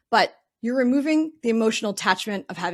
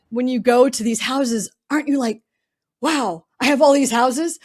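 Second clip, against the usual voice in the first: put-on a retried Southern accent, louder and higher on "go to these houses"; 4 semitones higher, 7 dB louder than usual. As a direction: give "When you go to these houses" a fuller mock Southern accent. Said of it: "insert Southern accent here".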